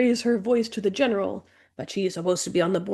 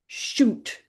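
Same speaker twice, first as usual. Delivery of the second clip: whispered; 3 semitones higher than usual. Real, not acted. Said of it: "censored curse whispered".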